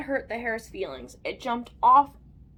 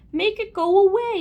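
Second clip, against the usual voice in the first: high, loud plea; policeman's yell; 7 semitones higher, 10 dB louder than usual. A narrator's reading. Policeman with hair on his face, yelling. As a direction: yell to be rid of it. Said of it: "yelled the policeman".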